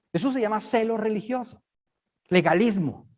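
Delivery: ordinary talk, nothing marked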